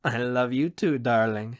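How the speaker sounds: warm answer in an easy, natural pitch; affectionate and settled, with light amusement; fond, amused reply. Acted. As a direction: answer her fondly, unhurried. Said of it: "he says with a chuckle".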